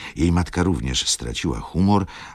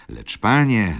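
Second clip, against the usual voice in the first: high, loud appeal; exclaimed appeal; 8 semitones higher, 5 dB louder than usual. A narrator's reading. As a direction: call for his attention urgently. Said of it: "zawołała". (głośne, naglące zawołanie)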